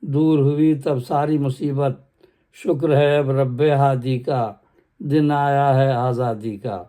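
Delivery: measured poem recital; stately nazm recitation. Acted. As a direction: declaim the stanza evenly. Next stanza of nazm. (باوقار انداز میں نظم خوانی)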